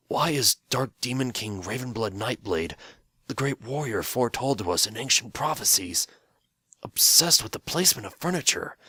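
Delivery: baffled, climbing to a high question; puzzled old pony. Acted. The old pony asking Phil about the Demon King, baffled.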